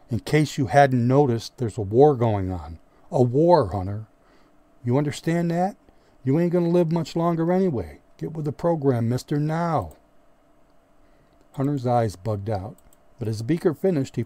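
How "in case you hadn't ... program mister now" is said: loud, rising angry roar. Acted. Beaker roars at the clueless replacement Hunter, loud angry roar. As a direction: roar it at him, growing higher. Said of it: "his voice a roar".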